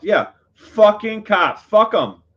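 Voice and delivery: loud, high, drawn-out cursing; angry outburst. Real, not acted. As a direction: let it rip, cursing them out. Venting anger after telling the story.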